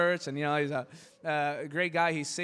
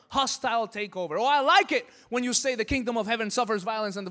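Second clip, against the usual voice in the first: defiant Judas; 2 semitones higher, 5 dB louder than usual. Acted. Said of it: "Judas said".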